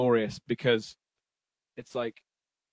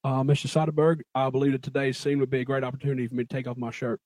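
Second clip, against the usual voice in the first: Matthew McConaughey impression; faster than usual. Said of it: "doing his finest Matthew McConaughey impression".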